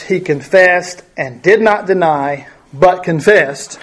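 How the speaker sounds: "but confessed" drawn out slowly; slow, pointed reading of the verse; emphatic reading. Shown as a demonstration. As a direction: lean on the repeated word "confessed". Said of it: "the strongest possible method in the Greek to show".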